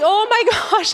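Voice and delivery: high, loud laughing "Oh my gosh"; panicked laugh. Retold or imitated. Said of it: "I'm like".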